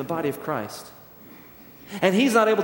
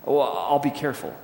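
dismissive; 3 semitones lower than usual. Retold or imitated. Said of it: "Luke dismissively replies".

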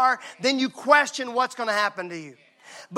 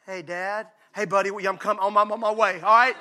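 phone call; 3 semitones lower than usual. Retold or imitated. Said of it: "I hear this".

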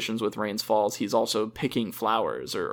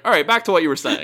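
a little higher and louder, through a laugh; laughing imitation; 5 semitones higher, 5 dB louder than usual. Imitating Rains resuming the talk, laughing through it. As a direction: chuckle while quoting him. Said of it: "And then he's like".

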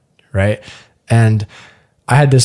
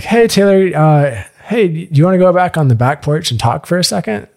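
imitating the date; 6 semitones higher than usual. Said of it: "she comes over to me like".

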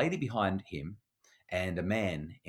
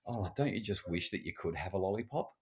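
soft wistful wish; 7 dB quieter than usual. Shown as a demonstration. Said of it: "we might say".

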